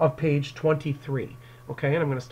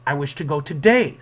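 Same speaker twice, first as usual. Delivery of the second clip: firm push, louder; stern; 5 dB louder than usual. Acted. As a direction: insist sternly on leaving. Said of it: "this is very stern".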